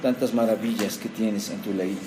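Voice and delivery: low-pitched, subdued public prayer. Real, not acted. Closes an opening prayer.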